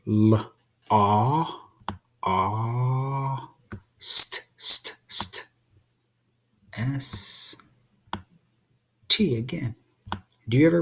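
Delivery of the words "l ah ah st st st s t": L, "ah", then unvoiced "st" repeated; sounding out lost. Shown as a demonstration. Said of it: "let's write the word".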